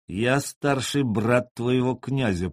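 slow, hissed through clenched teeth; through gritted teeth. Acted. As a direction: grit out each word slowly. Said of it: "процедил он".

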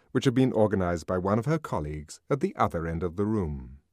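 plain reading voice

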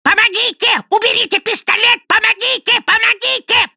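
very high, piercing screams for help; a bird shrieking like a murder victim; parrot's terrified cries. A narrator's reading. Parrot mimicking a victim's screams, piercing shriek. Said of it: "Затем вопль".

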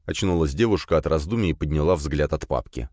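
plain reading voice

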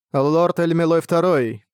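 slow, drawn-out inhuman call. Acted. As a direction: call out slowly like something not human. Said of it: "тот же нечеловеческий голос".

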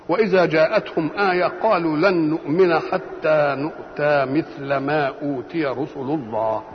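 slow, measured recitation with elongated vowels; Quran recitation. Acted. Lecturer quoting scripture to his listeners, slow recitation. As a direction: recite the verse slowly, drawing out each long vowel.

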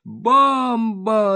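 high alarmed yell. A narrator's reading. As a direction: scream it in panic. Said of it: "орёт журналист Сахаревич".

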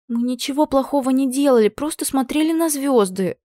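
put-on high, eager girl's protest, slowing on the stars; exclaiming. A narrator's reading. Girl protests to her mistress, high and pleading. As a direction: bursts out in defence, voice lifted high. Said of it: "воскликнула она".

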